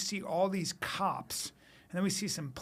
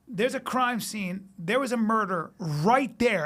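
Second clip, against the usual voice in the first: slow grave cop; 3 semitones higher, 5 dB louder, slower than usual. Retold or imitated. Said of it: "And he goes".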